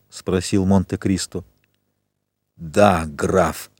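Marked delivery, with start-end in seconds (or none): 2.6-3.7 inhuman voice. Acted. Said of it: "голосом, в котором уже не было ничего человеческого".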